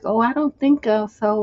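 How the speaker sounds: a timid no that leaves room for doubt; timid brush-off. Shown as a demonstration. Woman vaguely putting off a pushy man, timid. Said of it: "little timid responses are not no".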